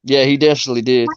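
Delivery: recap read. Acted. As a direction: read the stats like a sportscaster. Reads the fantasy recap aloud.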